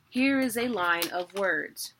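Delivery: HERE IS A LINE OF WORDS read slowly, word by word; measured reading of HERE IS A LINE OF WORDS; example line read out. Shown as a demonstration. Teacher reading out her written example, HERE IS A LINE OF WORDS, slowly. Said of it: "So I wrote a sentence".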